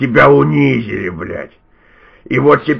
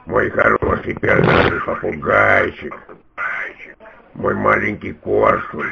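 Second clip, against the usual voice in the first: slow, soft pet talk; cooing; 6 semitones lower, 8 dB quieter than usual. Pretend. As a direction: coo at a pet bird like a baby. Cooing at the caller as a pet bird.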